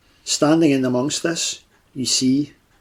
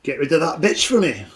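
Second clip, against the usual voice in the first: a lightly voiced hulking warlock, gruff refusal; a hint of a big brute brushing off a deal; Fletcher the warlock. GM as the warlock refusing the players' offer, lightly gruff.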